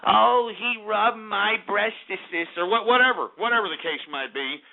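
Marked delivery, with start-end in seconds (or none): 0.0-2.5 mock accuser. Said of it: "saying the idea that".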